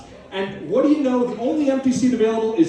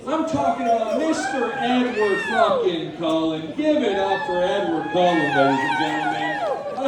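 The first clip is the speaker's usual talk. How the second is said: announcer hype. Acted. Hyping Edward like a host.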